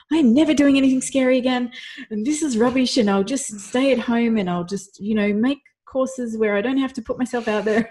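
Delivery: high, loud, exasperated vow to quit; loud mock-despairing declaration; fed-up outburst. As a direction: rant like you've had enough. Retelling pre-talk dread.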